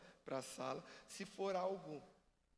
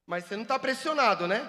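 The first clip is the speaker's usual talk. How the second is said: mock pressure; 5 semitones higher, 12 dB louder, faster than usual. Shown as a demonstration. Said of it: "teasing volunteer after pressuring him".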